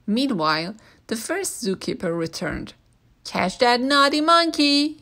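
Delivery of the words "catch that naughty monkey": high, loud angry shout; yelled. A narrator's reading. Zookeeper yelling at the others about George, angry and loud. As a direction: order them to catch him, furious. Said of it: "he yelled".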